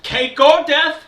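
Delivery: loud, high British villain line; mock British Darth Vader. Co-host imitating the dubbed British Vader, loud British accent. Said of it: "in a very British voice".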